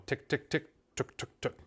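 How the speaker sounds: "tick, tick, tuk" said slowly and evenly, each syllable apart; slow feed call syllables. Shown as a demonstration. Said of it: "should be slower".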